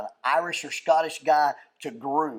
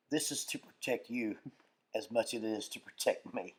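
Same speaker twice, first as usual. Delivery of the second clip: low, hushed, deliberate warning; calm menace; 6 semitones lower, 12 dB quieter than usual. Retold or imitated. Imitating Derek to a combative patient, calmly fearsome. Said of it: "he calmly looks at a guy and goes".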